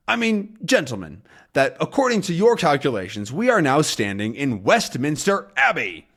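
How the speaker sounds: a hint of a gruff captain delivering a jab; Haddock's voice. Captain Haddock mocks the Thompsons' calculations, lightly voiced.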